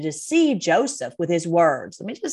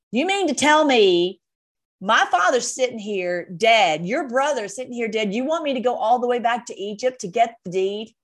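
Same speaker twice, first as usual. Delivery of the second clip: mild mock outrage; 3 semitones higher than usual. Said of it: "he's so mad".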